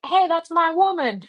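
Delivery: high-pitched mock duck protest; indignant duck. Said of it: "duck that had left and, like, eventually was like".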